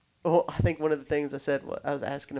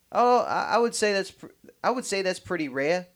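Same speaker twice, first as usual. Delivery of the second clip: hammed-up New Yorker, pitched up; New York accent; 5 semitones higher than usual. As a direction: imitate him in a put-on New York accent. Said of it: "thinking of this in the New York accent".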